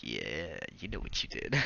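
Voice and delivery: needling brother at every restaurant; low mutter. Retold or imitated. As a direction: murmur it knowingly.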